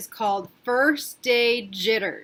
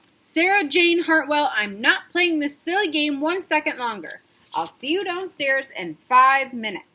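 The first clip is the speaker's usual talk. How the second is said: a hint of a firm father, louder; stern dad; 5 semitones higher, 5 dB louder than usual. Father losing patience with Sarah, lightly firm. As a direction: put your foot down. Dad uses full name.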